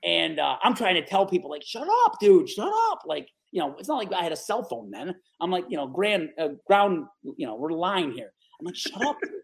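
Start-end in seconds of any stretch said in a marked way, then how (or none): 1.6-3.0 much higher, frantic shut up; hushing his buddies while on the phone; urgent hush. Retold or imitated. Hushing friends during the call. 8.8-9.3 higher, hushed urgent plea; hushing buddies during the call. Retold or imitated. Hushing friends again.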